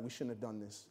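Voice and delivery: hushed worry to her husband; nervous whisper-soft. Retold or imitated. Wife fretting to her husband in the audience, hushed and anxious. Wife panicking quietly at recital.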